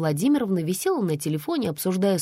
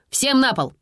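high barked order; police shout; 6 semitones higher than usual. Acted. Policeman storming in orders everyone down, shouting. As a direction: bark the order at the room. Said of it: "прокричал милиционер".

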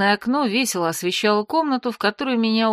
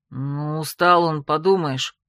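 put-on lower, dismissive young male voice; younger man shrugging it off; 5 semitones lower, slower than usual. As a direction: brush it off lightly. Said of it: "ответил второй, более молодой голос".

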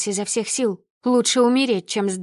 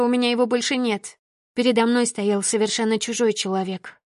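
plain reading voice

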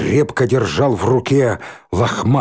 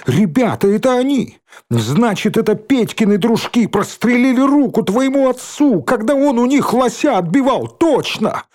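much higher, excited discovery; excited realization; 12 semitones higher than usual. Acted. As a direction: blurt out the sudden guess. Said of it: "догадался Рыжий". (взволнованная догадка)

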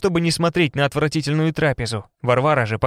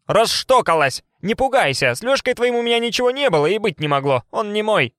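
taunting witch; 7 semitones higher than usual. A narrator's reading. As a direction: jeer at her cruelly. Varvara taunts Marusya.

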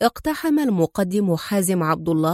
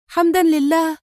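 overjoyed cry; 8 semitones higher than usual. A narrator's reading. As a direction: let the thanks soar. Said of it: "وهتفت في فرح شديد".

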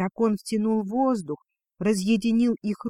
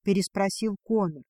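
ordinary delivery, nothing marked

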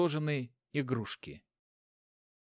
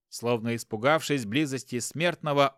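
ordinary delivery, nothing marked

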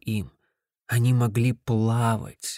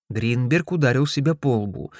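usual speaking voice

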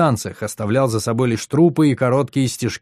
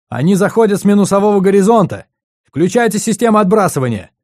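higher and louder, urgent warning; urgent shout; 9 semitones higher, 6 dB louder than usual. Acted. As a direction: yell it over the battle.

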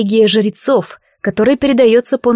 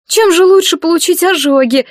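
loud protest; 9 semitones higher, 4 dB louder than usual. Acted. Marianna jumps up protesting.

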